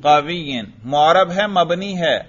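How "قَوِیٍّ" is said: قوی said as "qawiyyin"; genitive ending. Shown as a demonstration. Teacher drilling jar with pupil, genitive ending. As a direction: end قوی in "-in" over a doubled y. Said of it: "جر پڑھو".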